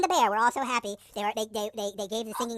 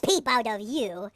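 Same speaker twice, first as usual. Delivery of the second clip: very slow, deliberate warning; slow threat; much slower than usual. Acted. Bear warns wolf against one more peep, slow threat. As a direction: space out every word as a warning.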